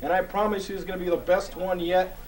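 hosting a book corner segment for the audience, in a hammed-up host voice; hammed-up host intro. Host introducing his book of the month, hammed-up announcer voice.

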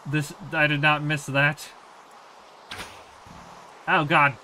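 loud, exasperated complaining; loud annoyed rant. Real, not acted. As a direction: vent loudly at the noise. Ranting at old rain sounds.

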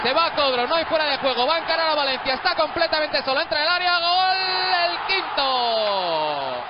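building goal commentary. Real, not acted. Jugada de gol en directo. (narración que sube hasta el gol)

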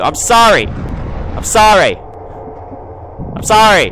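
high wailed apology, increasingly drawn out; frantic apology. Real, not acted. Player apologising to the ghost girl, long panicked wail. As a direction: cry out for forgiveness, stretching it.

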